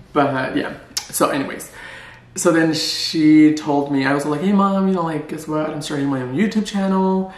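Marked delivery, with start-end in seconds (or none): 4.4-7.3 higher, lively own voice; chatty and bright, as herself; own natural voice. Retold or imitated. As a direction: her natural higher voice telling Mom news. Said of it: "usually when I have conversations with my mom".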